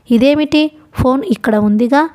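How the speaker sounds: usual speaking voice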